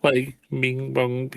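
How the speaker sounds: mock bell chime, drawn out slowly; bell imitation. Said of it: "No bell rings like that".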